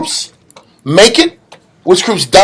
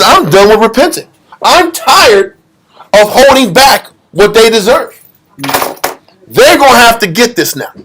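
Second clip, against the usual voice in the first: exasperated God, pitch raised; fed-up declaration; 3 semitones higher than usual. Retold or imitated. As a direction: lay it down as final, out of patience. God voiced as out of patience.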